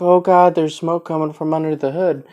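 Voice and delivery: understated mock worry about smoke from the hood; milder freaked out. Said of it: "he's freaking out about it".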